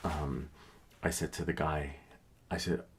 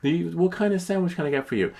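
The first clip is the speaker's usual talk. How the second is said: high, louder put-on clerk; mock Italian clerk; 11 semitones higher, 5 dB louder than usual. The clerk correcting the customer, high and mocking. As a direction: ham up the sandwich man. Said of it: "He's like".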